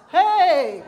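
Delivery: loud high shocked exclamation; shocked hey. Retold or imitated. Reading about roof damage, a loud shocked cry. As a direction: yelp it in alarm. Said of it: "When I say hey, that means, oh my God".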